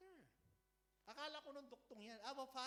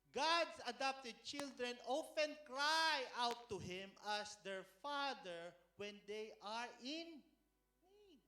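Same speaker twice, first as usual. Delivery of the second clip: fervent preaching; 2 semitones higher, 8 dB louder, slower than usual. Acted. Preacher building to climax.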